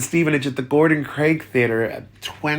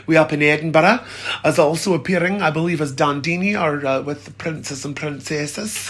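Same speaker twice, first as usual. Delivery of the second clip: put-on Scottish accent; 3 semitones higher than usual. Plugging an Edinburgh panto in a mock Scottish accent. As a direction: slip into a playful mock Scottish lilt. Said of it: "That's my best Scottish accent".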